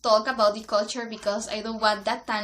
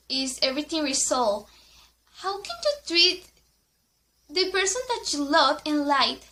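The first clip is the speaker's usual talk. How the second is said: indignant venting, pitch raised; angry at the ex who let his friends bully her; upset rant; 3 semitones higher than usual. Real, not acted. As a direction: vent the hurt, incredulous.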